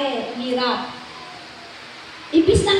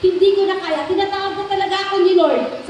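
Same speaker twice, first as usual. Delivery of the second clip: crying; 4 semitones higher, 4 dB louder, faster than usual. Retold or imitated. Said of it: "Umiiyak siya".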